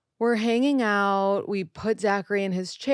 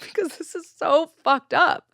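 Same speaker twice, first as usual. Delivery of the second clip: high, louder exasperated blurt; mock outrage; 10 semitones higher, 6 dB louder than usual. Answering her husband in a high, fed-up blurt.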